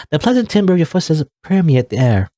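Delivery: lightly voiced old woman; a hint of a grumpy grandma. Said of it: "this is my grandma voice".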